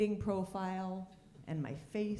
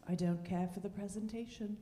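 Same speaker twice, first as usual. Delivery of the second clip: English husband; 5 dB quieter than usual. Retold or imitated. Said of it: "That's how he tells me".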